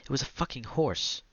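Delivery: a light retold holler; mock shout. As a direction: call it across the salon, laughing at it. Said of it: "you would look up and shout".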